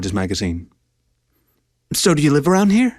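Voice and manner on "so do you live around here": high nervous blurt; sudden nervous question. Acted. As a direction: blurt it out higher. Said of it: "she blurted".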